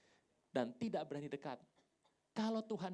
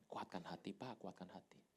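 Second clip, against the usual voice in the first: low, soft words of comfort; steady him quietly, low and soft; consoling; 9 semitones lower, 10 dB quieter than usual. Retold or imitated. Speaker consoles the weeping pastor by phone, consoling.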